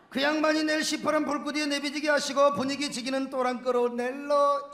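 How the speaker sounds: psalm in a Gyeongsang dialect. Acted. Preacher performs the Gyeongsang version of the psalm, Gyeongsang dialect. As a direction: put on a Gyeongsang accent. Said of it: "경상도 버전".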